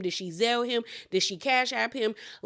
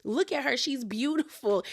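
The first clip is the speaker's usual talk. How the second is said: defending Stacy; 3 semitones higher, 3 dB quieter than usual. Retold or imitated. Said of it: "Jacqueline was trying to take up for Stacy".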